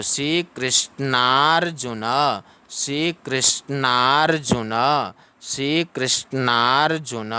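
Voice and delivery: "श्री कृष्णार्जुन" as shree krish-naar-ju-na; measured "श्री कृष्णार्जुन" for students to repeat; syllable-by-syllable demonstration. Shown as a demonstration. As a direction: model "श्री कृष्णार्जुन" in chunks, holding the naar. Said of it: "तो क्री पढ़ा जाता है".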